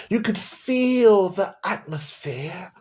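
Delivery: slow hushed whisper, mocking the awe. Shown as a demonstration. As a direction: breathe it out slowly like a sacred secret. Mocking the vague church feeling.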